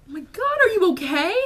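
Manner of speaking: high, loud mock-shocked onlooker; alarmed concern. Imitating the five people who see her crying, alarmed. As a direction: imitate a startled, worried bystander.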